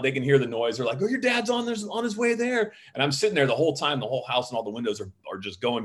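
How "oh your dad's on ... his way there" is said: much higher voice imitating a parent; parent on phone. Parents answering their scared kid's call, imitated in high voice. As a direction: quote an urgent parent in a raised pitch.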